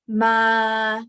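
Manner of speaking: sustained "ma" at speaking pitch; mid pitch. Shown as a demonstration. Teacher showing three pitches, middle held "ma". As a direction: hold "ma" level in the middle. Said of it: "mid pitch".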